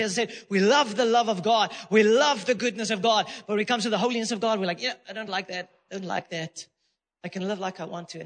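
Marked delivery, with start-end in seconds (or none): 4.8-8.2 low, soft mock grumble; dismissive mutter. Believers balk at God's holiness, low dismissive mutter. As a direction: grumble the excuse under your breath. Voicing reluctant believers' excuse.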